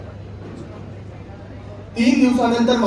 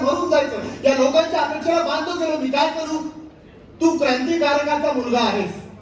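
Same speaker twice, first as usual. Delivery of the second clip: pitched-up, frustrated protest; acted frustrated outburst; 6 semitones higher than usual. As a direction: let the burden of expectations push the voice higher. Outburst against people's expectations of him.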